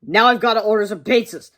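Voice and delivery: plotting a prank; scheming kid. Acted. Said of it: "said George".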